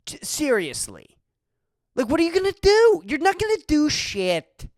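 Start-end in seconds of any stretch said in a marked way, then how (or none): 1.9-4.7 high, loud, fast jeer; loud mocking sneer; scornful taunt. Real, not acted. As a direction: ram the taunt at them, higher and quicker. Mocking the opponents' bluster.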